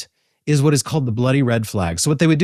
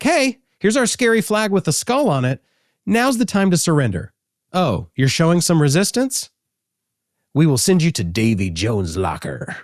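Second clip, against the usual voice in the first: mock pirate threat; 3 semitones higher than usual. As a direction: taunt the enemy ship like a pretend pirate. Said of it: "So it's like".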